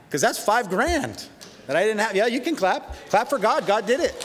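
rising joyful preacher's call; excited preaching. Real, not acted. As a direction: whip the crowd into applause. Pastor rousing church to clap.

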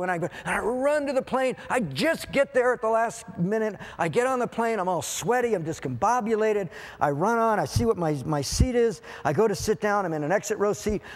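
high-pitched rush of a mock-breathless tale; frantic recounting. Preacher reliving his sprint to the plane, frantic. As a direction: tell it as if still dashing aboard.

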